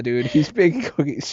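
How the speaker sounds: mildly mocking, unimpressed; a touch of audience sarcasm; sarcastic. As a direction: roll your eyes at the line. Sarcastic audience reaction retold.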